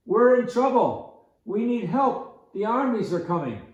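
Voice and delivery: put-on a strange old hermit pleading for help; odd hermit voice. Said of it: "why is he talking like that?".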